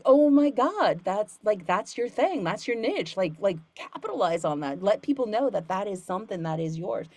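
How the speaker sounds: high, loud excited burst; excited gushing. Retold or imitated. Student Boston cheering her own niche, excited. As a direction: gush with delight at the news. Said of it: "Boston is like".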